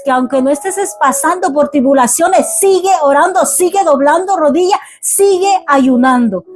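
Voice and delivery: fervent preaching. Acted. Pastor urging the congregation in fervent preaching. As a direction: press the flock hard to keep on their knees.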